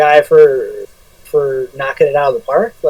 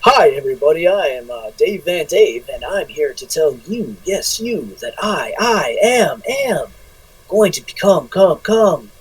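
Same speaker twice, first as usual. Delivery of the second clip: softer, drawn-out mock announcer promo; Anchorman promo voice; 2 semitones lower, 6 dB quieter than usual. Mocking wrestlers who cut promos, lightly hammed news-anchor voice. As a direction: ham up a fake wrestling promo. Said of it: "I call it Anchorman voice".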